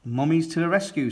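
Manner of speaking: high, quick and eager; heroic rallying cry. Acted. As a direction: call it out like a cartoon hero. Miss Rabbit rallying the mummies.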